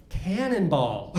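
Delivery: "Cannonball" slow and drawn out; "Cannonball" slowly, as a deadpan fix; "Cannonball" said slowly as the correct word; slow correction. Shown as a demonstration. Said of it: "What's a cannibal".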